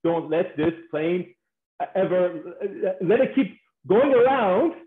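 mock plea with stretched-out opening words; pleading. Women begging the pilot to keep flying, pleading. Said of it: "Women will beg you".

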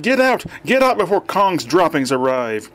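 high-pitched shouted order; urgent demand. A narrator's reading. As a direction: order everyone out at once. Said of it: "he demanded".

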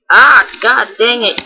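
startled loud yelp, slow; jump-scared shout at the game; scream into giggles. Real, not acted.

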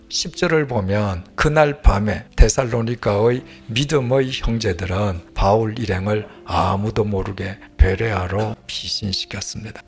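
ordinary talk

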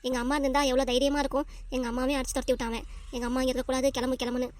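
soft, sorrowful soliloquy; downhearted. Acted. Daughter alone missing her mother, downhearted and soft. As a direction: talk quietly to yourself, hurting. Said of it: "எனக்கு இப்ப கஷ்டமா இருக்கு".

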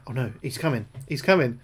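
loud panicked cry. Real, not acted. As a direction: blurt it out in alarm. Panic at enemy.

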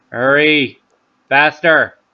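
urgent, hurried cheer; urgent self-urging. Real, not acted. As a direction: push yourself to finish. Urging himself to swallow.

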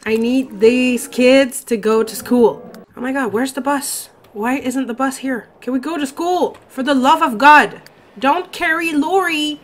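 fed up, begging the bus to come; exasperated plea. Real, not acted. Player begging the game to send kids to school, exasperated.

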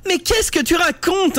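very high, strident voice broken by sobs; cri strident entrecoupé de sanglots; shrill sobbing. Acted. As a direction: wail it through fake tears, dragging slowly. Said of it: "d'un ton strident brisé par les sanglots".

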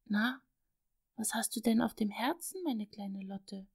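soft, slowing tender coaxing; lovingly. Acted. Father coaxing his little daughter, tender. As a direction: gently invite a confession. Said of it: "Liebevoll zog Vater sie zu sich heran".

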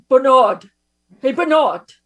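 loud mock call across the room; calling out Bernard. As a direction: shout his name to get his attention. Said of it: "And then Bernie would be like".

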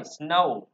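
"snow" ending in a gliding âu; Âu glide in "snow". Shown as a demonstration. Teacher modelling the only English sound, "snow" with âu glide. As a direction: round off "snow" toward u. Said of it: "Tiếng Anh chỉ có âm Âu thôi".

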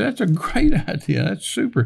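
high, lightly enthusiastic retold reply; delighted approval. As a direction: imitate a wife gladly welcoming an idea. Retells wife welcoming the idea.

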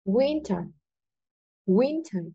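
"winter" with a strong "win", soft falling "ter"; soft model reading of "winter", weight on the first syllable; stress on WIN. Shown as a demonstration. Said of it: "À, chính là win". (nhấn âm "win" trong "winter")

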